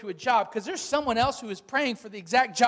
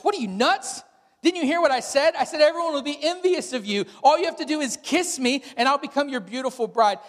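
exasperated frog; 5 semitones higher, 4 dB louder than usual. Acted.

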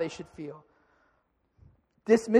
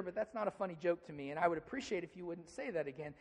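soft honest request; 3 semitones lower, 12 dB quieter than usual. Pretend. Calm, honest reply to a hurtful joke.

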